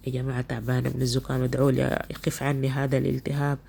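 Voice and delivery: tired voice with a head cold; congested, can barely breathe; stuffy nose. Real, not acted. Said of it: "تعبانة من الزكام ... ما قادرة حتى أتنفس".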